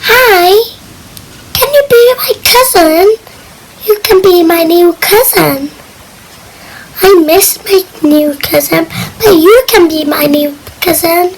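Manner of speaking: a hint of a polite child; friendly. Shown as a demonstration. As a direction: sweetly ask them to be your cousin. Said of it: "Just talk like this".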